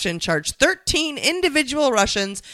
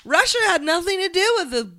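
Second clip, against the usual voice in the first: Trump-like denial; 10 semitones higher than usual. Pretend. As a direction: scoff like a defensive politician. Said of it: "There's no collusion. ... fake news".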